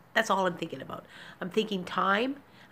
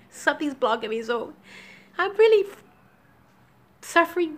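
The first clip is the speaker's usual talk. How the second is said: tearful; 5 semitones higher, 4 dB louder than usual. Real, not acted. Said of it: "I'm tearful today".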